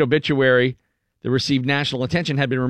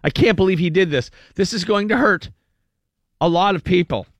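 mock upset relative; 5 semitones higher than usual. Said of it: "Dwight Demlow says".

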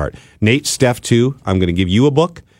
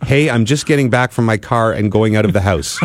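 laughing read; 3 semitones higher than usual. Retold or imitated.

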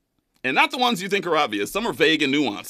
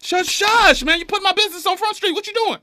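high, loud hushing protest; defensive; 4 dB louder than usual. Real, not acted. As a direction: shush them, flustered and caught. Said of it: "Sound real defen".

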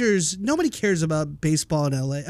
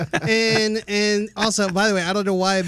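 redneck caller voice; 3 semitones higher than usual. Retold or imitated. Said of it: "making Caesar sound like a redneck".

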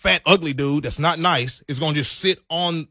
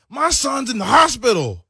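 mock pitiful plea; 8 semitones higher, 5 dB louder than usual. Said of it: "She was like".

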